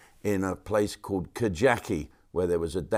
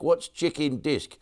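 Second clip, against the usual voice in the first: puzzled airport worker; 6 semitones higher than usual. Retold or imitated. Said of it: "I said".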